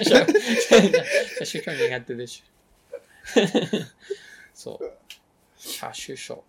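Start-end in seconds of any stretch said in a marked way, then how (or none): 0.0-2.4 車種書苦手でしゅ, slow, laughing, でしゅ lisped. Shown as a demonstration. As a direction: drawl 苦手でしゅ with a childish lisp on でしゅ. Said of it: "車種書苦手でしゅって言ってるね".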